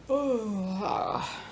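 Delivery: long sigh of a stretch; stretch groan. Real, not acted. Streamer stretching mid-chat, drawn-out sighing groan.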